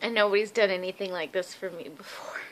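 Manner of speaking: choked-up whisper; tearful whisper over a friend's gift; holding back tears. Real, not acted. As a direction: barely get it out, fighting tears. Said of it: "trying really hard not to cry".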